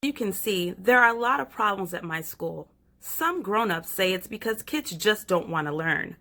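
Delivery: put-on lively little girl telling her story; light child narrator, chatty and eager. Reads child narrator Stella.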